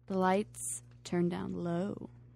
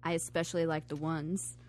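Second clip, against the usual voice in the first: sexy voice; 4 dB quieter than usual. Acted. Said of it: "I like reading them in that sexy voice".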